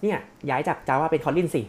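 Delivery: high, eager mock sales suggestion; acted eager pitch. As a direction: pitch it like coaxing an older colleague.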